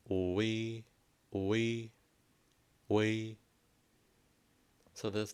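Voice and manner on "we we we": we said clearly and held, each repeat a bit louder; Vietnamese oe demo. Shown as a demonstration. Teacher blends two letters into one sound, clearly. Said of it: "you were to make".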